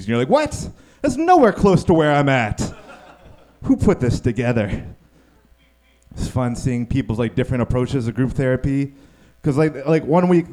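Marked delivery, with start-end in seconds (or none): 0.3-4.8 baffled. Retold or imitated. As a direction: squeak out the shock, then protest. Baffled reaction quote.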